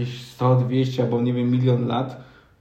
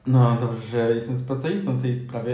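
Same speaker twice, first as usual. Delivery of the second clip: sarcastic; 3 semitones lower than usual. Real, not acted. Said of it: "jakby co, to był sarkazm".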